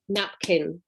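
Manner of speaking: napkin split as nap-kin; syllables demo. Shown as a demonstration. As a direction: say napkin beat by beat. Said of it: "in the same way with napkin".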